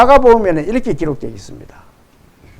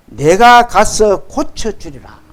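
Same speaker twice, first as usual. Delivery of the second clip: slow, measured reading of Jesus' promise; solemn scripture reading; 4 dB louder, much slower than usual. Acted. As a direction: draw the verse out formally and deliberately. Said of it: "이르시되".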